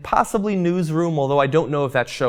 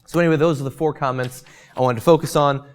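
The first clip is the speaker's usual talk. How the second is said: losing voice. Real, not acted. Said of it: "Losing my voice here".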